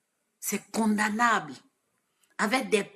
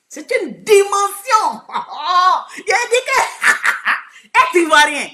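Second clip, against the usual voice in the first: slow, laughing through the words, higher and louder; 8 semitones higher, 9 dB louder, slower than usual. Real, not acted. Proud Ivorian laughing to her friends, higher and louder. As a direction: burst into laughter mid-sentence.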